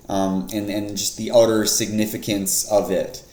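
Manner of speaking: dry, deadpan mock seriousness; sarcastic. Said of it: "I'm being sarcastic".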